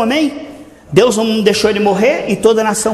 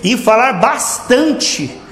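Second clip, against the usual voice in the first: slow prayer; slower than usual. Shown as a demonstration.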